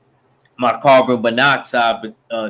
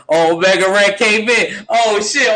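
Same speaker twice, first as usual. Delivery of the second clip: much higher, loud hype; hyped; 8 semitones higher, 4 dB louder than usual. Acted. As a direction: lose it as the wrestler comes in. Hyped reaction to wrestler's entrance.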